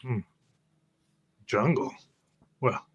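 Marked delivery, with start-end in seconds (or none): none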